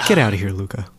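playful whisper. Pretend. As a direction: hiss it under your breath. Joking dismissal of Luca.

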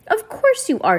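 high eager insistence; gushing. A narrator's reading. Judge brushing off Violet's doubt, gushing. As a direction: gush it, starry-eyed.

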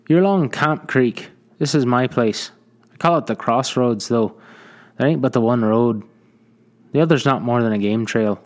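put-on chatty old trapper showing off his land; cheerful frontier trader. Trader explaining his place to a rescued stranger, hearty.

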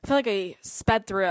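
slightly winded, out of breath. Real, not acted. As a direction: talk as if short of air. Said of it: "I'm, like, out of breath".

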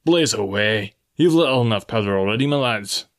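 scornful call to the enemy gunners; defiant taunt. Acted. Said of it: "said the captain".

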